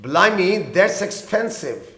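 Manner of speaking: very slow, clear teacher's read; slow example line; slow repeat. Shown as a demonstration. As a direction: repeat each word slowly for learners. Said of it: "یہ تو بہت مہنگا ہے".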